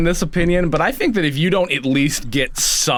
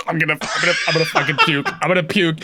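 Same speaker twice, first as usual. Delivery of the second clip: laughing; faster than usual. Retold or imitated. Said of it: "sitting there going".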